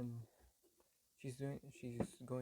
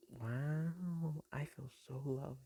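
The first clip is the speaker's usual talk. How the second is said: sarcastic; 4 semitones higher, 3 dB louder, much slower than usual. Retold or imitated. Son sarcastic after being smacked.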